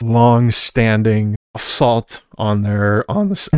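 cracking voice, clearing throat. Real, not acted. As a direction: voice cracking mid-sentence, throat catching. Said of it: "my voice keeps cracking".

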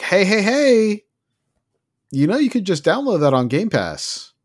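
high, hammed-up sales pitch; pushy salesman. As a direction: call out like an eager promoter touting a deal. Acting out a pushy Game Pass pitch.

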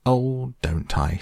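high, drawn-out challenge in character; indignant retort. Retold or imitated. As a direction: stretch it out like a put-on affront. Mole retorts as the washerwoman.

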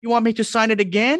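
mock Udo Kier. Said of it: "And he was like".

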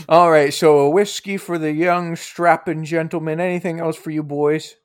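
lightly voiced old hostess; a hint of an old lady taking orders; old lady innkeeper. Innkeeper taking drink orders from the boys, lightly voiced old lady.

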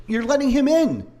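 high, ringing accusation; retold yell. Yelling at the cop during the roadside shouting match. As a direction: fling the accusation high at him. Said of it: "a nice little yelling match".

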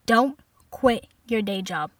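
slow, measured dismissal imitating mom; mother's deliberate put-down. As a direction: deliver it word by word, with pauses. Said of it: "She said".

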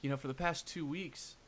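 mock-genteel Southern gentleman, mildly aggrieved; lightly voiced Southern genteel complaint. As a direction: play a lightly Southern gentleman fretting politely. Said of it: "my voice switched from the Southern genteel gentleman".

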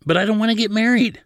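very high, loud, petulant outburst; whining protest. A narrator's reading. Protests again, cutting off the argument.

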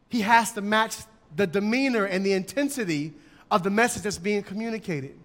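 ordinary talk

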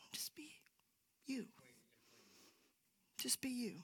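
whispered, gentle reassurance; soft whisper. Real, not acted. Preacher whispering to the congregation to just be themselves. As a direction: breathe it out like a secret comfort.

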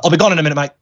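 curt imitated British accent. British actor brushes off a child fan, British accent. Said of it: "in a real British accent".

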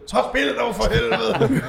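high mock yell through laughter; retold yelling. Sound guy's boss yelling through the headset. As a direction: laugh while yelling the angry order. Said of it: "Råber og skriger".

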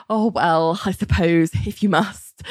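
mildly coy, hesitant retelling; bashful. Retold or imitated. Co-host retells John agreeing to a goodbye kiss, mildly bashful. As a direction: pause shyly between phrases, lightly acted. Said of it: "sort of bashfully".

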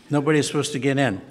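chuckling through the words; laughing. Real, not acted. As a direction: laugh while saying it, fast. Amused aside about pastor sneaking in.

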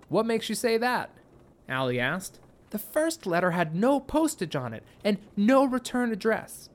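put-on light, thoughtful girl; teen girl voice. A narrator's reading. Katie talking to Allie.

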